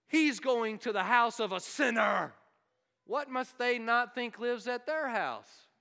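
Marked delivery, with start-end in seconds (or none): 0.1-2.3 scandalised outcry. Retold or imitated. Crowd scandalised that Jesus visits a sinner, shocked outcry. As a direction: cry it out in mock horror.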